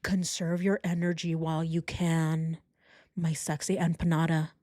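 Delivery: low, drawn-level mock boyfriend voice; mocking low-voiced lover; Chris. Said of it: "And Chris is like".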